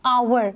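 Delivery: "hour" spoken slowly with a silent h, vowel first. Shown as a demonstration. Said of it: "we pronounce it as". ("hour" धीमे, बिना ह के)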